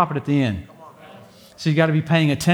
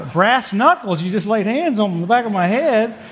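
laughing through the words; 4 semitones higher than usual. Real, not acted. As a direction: chuckle while telling it. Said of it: "laughing while telling".

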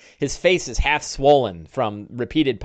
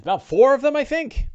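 rancher voice; 11 semitones higher, 4 dB louder than usual. Acted. Big Al recalling orcs.

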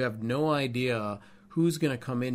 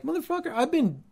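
much higher and louder, exasperated swearing; inner outburst; 10 semitones higher, 5 dB louder than usual. Retold or imitated. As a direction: let the private frustration burst out. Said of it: "In my mind, I'm like".

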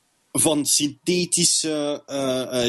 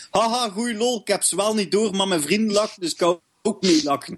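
imitating a fake-laughing guy; light mocking of a fake laugh; fake laughing bloke; 5 semitones higher than usual. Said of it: "zo van dat super fake gelachen zo".

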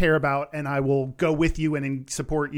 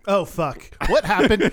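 louder, higher mock alarm; mock panic; 4 semitones higher, 3 dB louder, slower than usual. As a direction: blurt it out in comic panic. Joke panic over millennium mix-up.

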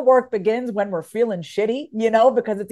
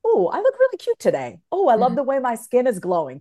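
delighted self-compliment. Pretend. Admiring herself in the mirror, delighted. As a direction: gush over yourself. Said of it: "you can say".

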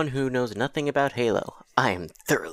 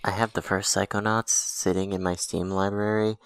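muffled, whispering through a hand; hand over mouth. Real, not acted. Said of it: "why do you have to whisper with your hand over your mouth".

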